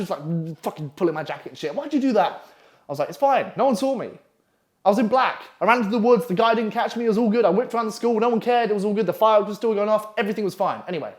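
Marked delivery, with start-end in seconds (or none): 1.7-2.4 put-on high-pitched girl impersonation; shocked girl. Girl friend demands an explanation, high and shocked. 3.1-10.8 high, rattled-off brush-off; breezy reassurance. Retold or imitated. Boy reassures girl friend it was all good, breezy. Retells brushing off the girl's worry.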